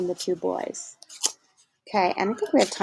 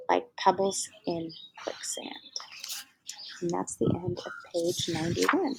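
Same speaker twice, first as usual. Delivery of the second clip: softer, whispered final image; whispering the last line of the chapter; hushed close; 10 dB quieter than usual. A narrator's reading. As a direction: let the chapter fade in a whisper.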